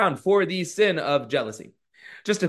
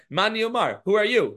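surprised challenge; 5 semitones higher than usual. Retold or imitated. Rav Nachman challenges the ghost.

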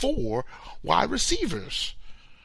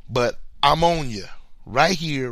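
ordinary delivery

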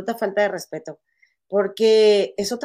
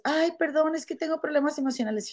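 higher, hurried mock apology; imitating an apologetic employee; 5 semitones higher, 3 dB quieter than usual. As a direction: lightly mimic a pleading excuse. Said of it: "Y después".

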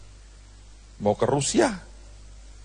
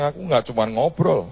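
low, soft and slow voice of God; God gently insisting he is serious; God speaking; 7 semitones lower, 7 dB quieter than usual. Retold or imitated. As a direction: let God answer quietly and firmly. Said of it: "Tuhan bilang".

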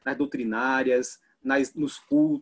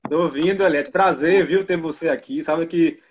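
raised voice; 3 semitones higher, 5 dB louder than usual. Real, not acted. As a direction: speak up to be heard. Guest just got audio back.

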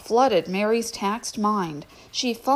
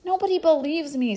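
glum; 7 semitones higher than usual. Acted. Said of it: "gazed still more glumly".

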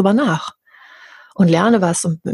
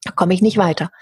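mock victim whine; 3 semitones higher than usual. Parodying people who play the victim, lightly whiny. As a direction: whine like a self-pitying victim. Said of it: "ein Opfer unserem eigenen Leben sein und sagen".

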